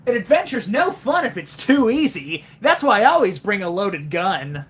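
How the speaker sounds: confident Sonic one-liner; Roger Craig Smith Sonic. Retold or imitated. Sonic impression boasting about adventure, lightly cocky. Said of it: "let me try my best Roger Craig Smith".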